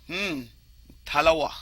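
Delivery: an admiring hum, then talawa; Jamaican Patois. Shown as a demonstration. Describing island men, an admiring Patois talawa. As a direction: praise a strong man, Jamaican style. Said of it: "a man is said".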